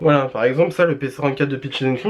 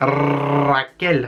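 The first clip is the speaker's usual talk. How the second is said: put-on Spanish accent, rolling the R. Naming the shade picked for the pink eye, in a Spanish accent, rolled R. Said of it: "à dire avec un, un accent bien espagnol, bien, euh, bien on roule le R".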